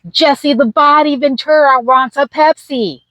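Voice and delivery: high-pitched mock desperation; hammed-up urgent plea; urgent exclamation. Retold urgent plea to Rick.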